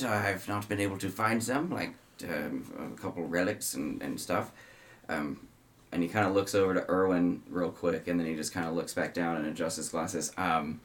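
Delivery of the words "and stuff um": usual speaking voice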